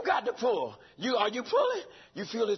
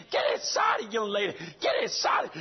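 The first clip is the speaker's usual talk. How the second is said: shouted urging. Real, not acted. Urging young lady in church.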